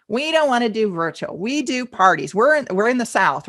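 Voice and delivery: lightly put-on Southern accent; generic Southern accent, mildly put on. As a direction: imitate a Southern client turning you down. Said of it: "They've got their accent on".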